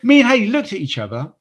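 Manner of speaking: laughing. Real, not acted. Still laughing while retelling.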